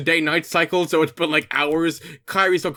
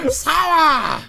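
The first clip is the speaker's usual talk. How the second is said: Donald Duck voice; 9 semitones higher, 3 dB louder than usual. Acted. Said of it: "a good Donald Duck impression".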